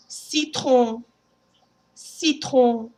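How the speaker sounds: "Citron" ending nasal, no N. Shown as a demonstration. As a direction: end "Citron" in the nose. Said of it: "pronounce with me".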